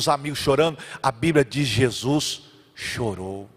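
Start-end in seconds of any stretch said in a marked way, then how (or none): 1.7-3.5 very slow, low and soft; solemn, sorrowful. Acted. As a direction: let the words fall gravely. Solemn key verse. (lento e grave, com tristeza)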